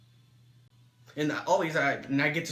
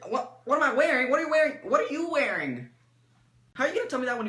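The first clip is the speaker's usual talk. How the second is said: rising outraged comeback, then settling; indignant shout; 8 semitones higher than usual. Retold or imitated. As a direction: fire the question right back at them. Indignant comeback about clothes.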